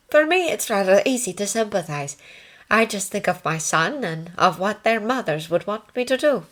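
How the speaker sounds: a hint of a considerate nursing sister; ward sister.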